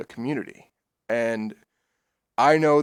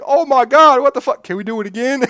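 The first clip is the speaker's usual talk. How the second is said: imitating giddy friends, high and loud; squeal-pitched thrilled begging, about to laugh; retold ecstatic glee; 12 semitones higher, 9 dB louder than usual. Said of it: "he's ecstatic".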